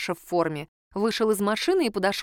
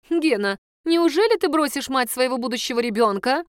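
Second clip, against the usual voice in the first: stern; 4 semitones higher than usual. Acted. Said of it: "сурово сказала Ксюня".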